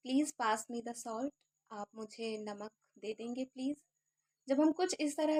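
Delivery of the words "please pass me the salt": slow, softer, clear; slow model sentence. Shown as a demonstration. Teacher showing a request sentence, slow. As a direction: read it out slowly for learners. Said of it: "first sentence है".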